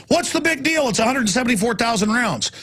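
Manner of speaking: high-pitched scoffing brush-off; mocking dismissal. Mimicking the press downplaying the purchase, scoffing. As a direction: parrot the smug dismissal. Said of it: "and say".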